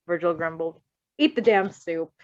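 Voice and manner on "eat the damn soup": laughing. A narrator's reading. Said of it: "he laughed".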